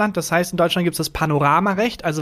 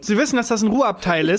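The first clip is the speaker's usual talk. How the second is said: higher-pitched pointed reminder; mock passive-aggressive scolding; 4 semitones higher than usual. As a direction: remind them as if they should know better. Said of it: "dieses passiv-aggressive".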